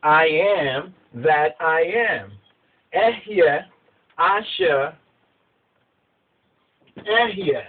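slow, solemn, weighty proclamation; preacher voicing God, slow and grave. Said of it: "And Elohim said to Moshe".

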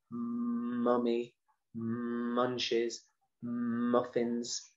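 drawing out the M in "Mummy, munches, muffins" slowly; stretching out the sound. Shown as a demonstration. Teacher to children, stretching the M sounds slowly. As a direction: stretch each starting M long so children hear it. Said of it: "Really stretching out the sound".

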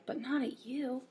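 tender, hushed storybook reply; gently reassuring. A narrator's reading. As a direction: soothe a worried little one. Ivan reassures worried Ruby.

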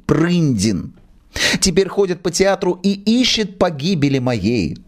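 put-on high, fretful old man begging; pleading old manager. Old theatre manager begs the actress to hide him. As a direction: beg her not to raise a fuss.

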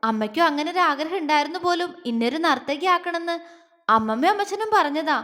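voice breaking. Acted. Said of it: "വാക്കുകൾ പലയിടത്തും ഇടറിപ്പോയി".

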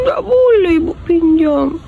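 mock crying. Mother pretends to cry to baby.

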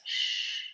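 long voiceless hushing "Sh"; "Sh" alone, like hushing someone; sh sound. Shown as a demonstration. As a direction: draw out "Sh" as a pure hiss of air. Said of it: "put your finger to your lips like this".

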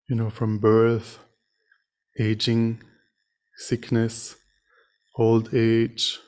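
measured meditation teaching with long pauses; guided meditation. Real, not acted. Meditation teacher leading sitters to reflect on suffering and compassion, guided meditation. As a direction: guide them gently, phrase by phrase, leaving silences.

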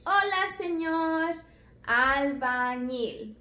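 slow, drawn-out albañil; model greeting. Shown as a demonstration. Teacher modelling "Hola, señor albañil" for the children. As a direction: spell out albañil for the kids. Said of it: "Le pueden decir".

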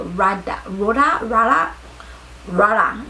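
"Rada" said over and over, testing the vowel; trying pronunciations. Shown as a demonstration. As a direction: try "Rada" as /rada/ and /roda/. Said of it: "I hope I'm pronouncing it right".

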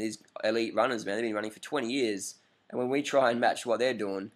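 ordinary talk

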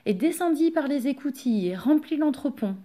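usual speaking voice

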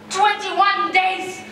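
drawn out word by word, very slow; slow emphatic. Acted. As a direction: spell it out slowly for emphasis. Mother drives home point.

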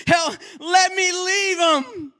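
high, loud, slow, crying plea; real emotional outcry. Real, not acted. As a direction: let the tears break through the shout. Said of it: "I got a little emotional right there".

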